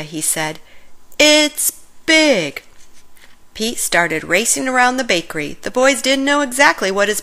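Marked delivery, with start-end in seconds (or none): 1.2-2.6 higher, louder burst of delight; the big idea just hit you; excited. Acted. Pete tells the boys his idea, excited and louder.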